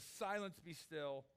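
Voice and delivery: simple authority. Shown as a demonstration. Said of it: "he simply says".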